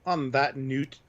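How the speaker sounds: Canadian "noot" for note; playful Canadian vowels on the sign-off; mock Canadian accent. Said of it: "I guess Canadian".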